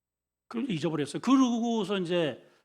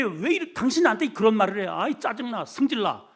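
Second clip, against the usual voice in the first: mock irritation; 3 semitones higher, 4 dB louder than usual. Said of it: "이래가지고 휙 돌아서면은".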